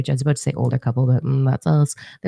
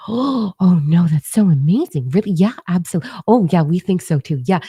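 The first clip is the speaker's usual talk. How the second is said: mock eager agreement, pitched up; naive, sweet gushing; 3 semitones higher, 4 dB louder than usual. Young couple humouring a bragger, mock naive gushing. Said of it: "so naive and sweet".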